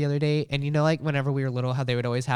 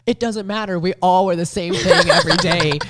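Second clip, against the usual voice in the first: higher-pitched, louder cartoon outburst; mock exasperated cartoon quote; imitating Shaggy; 6 semitones higher, 7 dB louder than usual. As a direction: exclaim it high and loud, like a cartoon character. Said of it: "And finally he goes".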